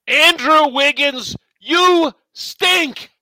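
put-on high, loud grumpy old man yell; old man rant. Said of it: "your old man rant".

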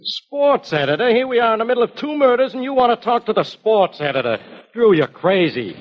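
high-pitched incredulous outburst. Acted. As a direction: protest in disbelief, pitch way up. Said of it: "will you lower your voice".

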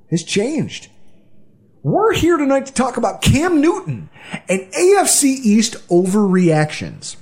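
booming ringmaster announcement. Pretend. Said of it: "announces topic like a ringmaster".

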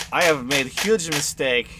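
a hint of a disappointed range master; NPC voice. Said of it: "and Cleva is like".

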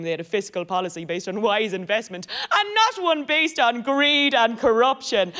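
ordinary talk

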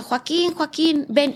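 retold calling out. Sick woman calling her boyfriend from the bed, mild cry. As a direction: call out his name from the bed, strained. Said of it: "empiezo a gritar a Joaquín".

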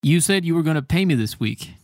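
teacher acting out an angry complaint to a friend; mock outrage. Shown as a demonstration. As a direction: sound fed up with a friend who owes you. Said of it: "esta, poco grosera".

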